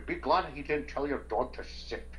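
put-on slow, lightly done Scottish movie-star accent; a hint of a Scottish Connery drawl, slowly; Sean Connery impression. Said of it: "in the style of Sean Connery".

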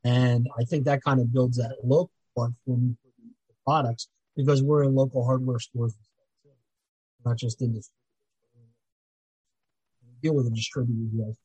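cutting out audio; choppy mic dropping out; glitchy audio. Real, not acted. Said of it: "Your, your audio is cutting out a little bit".

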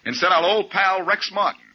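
teasing. Acted. Blackie teases Faraday.

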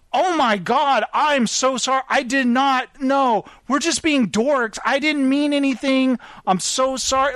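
high, gushing retold apology; super apologetic. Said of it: "Like, super apologetic".

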